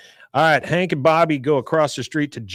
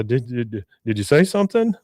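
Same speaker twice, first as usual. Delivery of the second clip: mock stammer rising into the question; flustered stammer; 3 dB louder than usual. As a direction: act out a rattled, desperate man. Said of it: "very lonely and very desperate".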